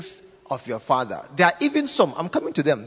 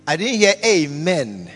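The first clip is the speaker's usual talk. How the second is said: raised voice, demanding a response; louder call for amen; 3 semitones higher, 7 dB louder than usual. Real, not acted.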